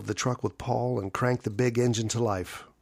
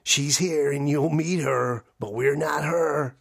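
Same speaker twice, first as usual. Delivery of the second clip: slow, louder growling monster voice; laughing growl; 3 semitones higher, 4 dB louder than usual. Acted. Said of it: "A laughing growl".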